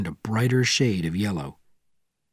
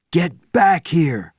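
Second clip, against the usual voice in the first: loud, slow commanding shout; 7 semitones higher, 5 dB louder, much slower than usual. Acted. Bourne calling Benjamin back to the jeep, shouting. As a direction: call him back firmly. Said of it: "shouted Bourne".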